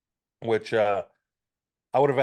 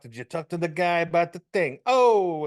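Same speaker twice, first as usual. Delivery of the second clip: imitating Italian-American mob chatter; hammed-up Italian-American gangster patter; mock mobster talk; 3 semitones higher than usual. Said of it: "they do the whole thing".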